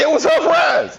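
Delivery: a drawn-out yelled defense of himself; comic shout. Real, not acted. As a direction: stretch it out and shout it as a joke. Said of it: "comic insistence".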